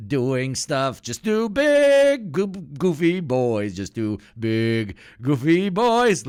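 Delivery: high, slow sing-song teasing; high mock cutesy voice; mock sweet narration. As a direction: coo it like describing cute pets. Mocking narration of Putin and Kim.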